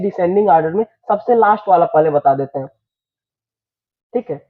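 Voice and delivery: normal talking voice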